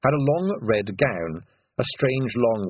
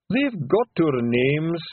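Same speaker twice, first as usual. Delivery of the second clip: sobbing; 6 semitones higher, much slower than usual. A narrator's reading. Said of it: "sobbed Daft Woolly".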